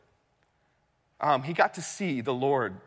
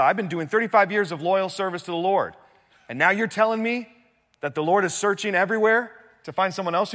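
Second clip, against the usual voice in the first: louder, higher indignant protest, easing as he dismisses; mock-indignant king, raised voice; acting angry; 5 semitones higher, 5 dB louder than usual. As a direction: play an affronted king building his grievance. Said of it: "He's angry".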